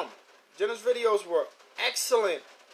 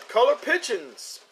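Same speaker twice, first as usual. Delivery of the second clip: imitated Southern accent; 3 semitones higher than usual. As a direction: mimic a Southern guy on his videos. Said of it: "with that Southern accent".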